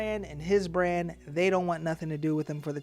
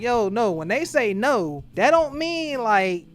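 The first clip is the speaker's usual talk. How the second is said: higher, louder imitated objection; emphatic protest; 4 semitones higher, 4 dB louder than usual. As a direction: act out setting someone straight, pitched up. Acts out emphatic correction of coworkers.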